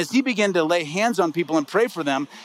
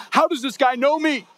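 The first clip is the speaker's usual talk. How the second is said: amazed disbelief; 8 semitones higher than usual. Retold or imitated. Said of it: "I'm like".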